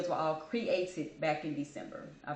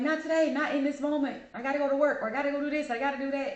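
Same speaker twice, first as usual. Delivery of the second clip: firm self-talk; 6 semitones higher, faster than usual. Acted. Firm self-talk against breaking down.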